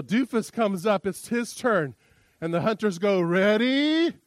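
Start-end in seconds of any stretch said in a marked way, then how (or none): 3.2-4.1 loud, higher barked firing orders; hunter's command. Acted.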